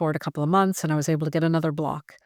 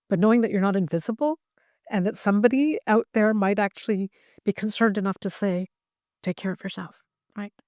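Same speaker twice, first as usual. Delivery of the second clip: tearful; 4 semitones higher than usual. Real, not acted. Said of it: "I'm sorry I'm crying".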